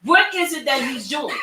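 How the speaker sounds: confused friends asking what just happened; baffled onlookers. Retold or imitated. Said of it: "people with him probably thinking".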